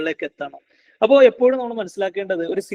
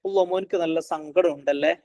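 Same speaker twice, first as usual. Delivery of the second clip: put-on understated sympathy to a child; mildly tender demo of empathy; empathetic parent. Shown as a demonstration. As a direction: gently acknowledge the child's hurt. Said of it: "എന്ന രീതിയിൽ ഒരു എമ്പതി".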